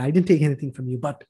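low, softened voice of gentle reassurance; quiet, low-pitched comforting words; kind divine reply. Retold or imitated. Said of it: "God was so kind enough".

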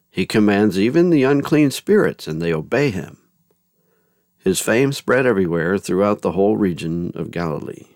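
expressive scripture proclamation, lifted openings and falling phrase ends; gospel reading. A narrator's reading. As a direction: proclaim the story to a congregation. Reads the Gospel of Mark.

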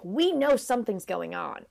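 mild mock accusation; lightly pointed, calling them out; knowing disapproval. Garden ornaments are onto the secret lovers, mild disapproval. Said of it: "either are like".

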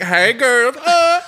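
camp high greeting. Retold or imitated. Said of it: "I'm like".

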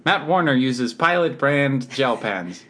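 slow, deliberate endorsement read; celebrity endorsement pitch; hard sell ad. Acted. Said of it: "pretending I'm in a commercial".

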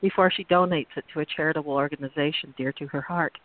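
purple prose reading. Acted. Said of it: "I'm going to read it as purple as possible".

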